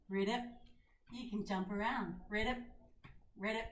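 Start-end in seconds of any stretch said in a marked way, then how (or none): 0.1-0.4 frog croak. Shown as a demonstration. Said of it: "can you be a frog". 2.3-3.7 frog croak. Shown as a demonstration. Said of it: "can you be a frog".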